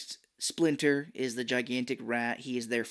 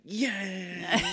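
high, laughing cheer; 7 semitones higher than usual. Retold or imitated. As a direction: whoop like the turtles celebrating. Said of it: "They're like".

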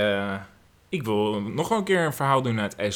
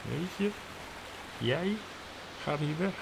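much softer, almost under the breath; hushed voice; 2 semitones higher, 10 dB quieter than usual. Acted. Playing the scene quietly as the story says. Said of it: "sprak zij zo zacht".

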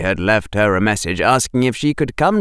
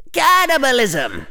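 higher-pitched mock cry of horror; mock shout; 13 semitones higher than usual. A narrator's reading. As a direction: cry it out high in put-on alarm. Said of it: "Hufflepuff was shouting".

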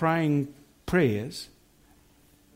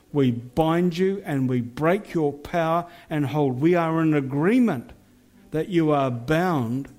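fierce commanding prayer. Acted. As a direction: rebuke the spirits with authority. Binding spirits over the town.

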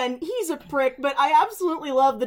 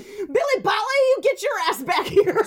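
mock angry dad; 6 semitones higher than usual. Dad ordering Billy back, mock angry. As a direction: imitate a furious father calling his boy.

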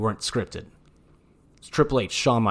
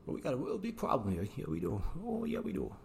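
ominous voice; 5 semitones higher, 15 dB quieter than usual. Pretend. Ominous put-on voice, quiet.

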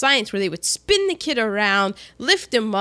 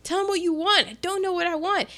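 higher and fast, mock panicky self-talk; anxious inner voice; 6 semitones higher, faster than usual. Ralphie frozen on Santa's lap, rushed anxious self-talk. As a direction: hurry yourself, half-hearted mock panic. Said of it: "He's super anxious".

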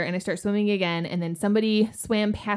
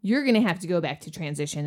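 repairman bad news; 7 semitones lower than usual.

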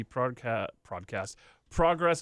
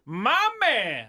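mock hype voice; 6 semitones higher than usual. Mock Lio Rush hype.

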